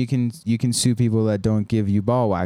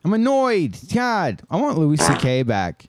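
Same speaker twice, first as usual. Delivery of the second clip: high put-on whiny voice, much higher; mock whiny rant; 7 semitones higher than usual. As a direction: whine it like a petulant comedian, pitched way up. Mock whining about being annoyed.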